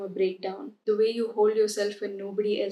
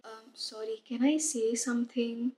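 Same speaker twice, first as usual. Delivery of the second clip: much softer, a shy mock mumble; timid, hesitant ask; 6 dB quieter than usual. In a meeting, nervously asking to speak, softly. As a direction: imitate someone afraid to interrupt, barely voiced. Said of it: "speak up in a meeting".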